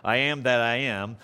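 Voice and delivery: a hint of a booming movie God; lightly voiced grand divine proclamation; mild mock epic God voice; Ten Commandments voice. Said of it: "that Ten Commandments kind of thing".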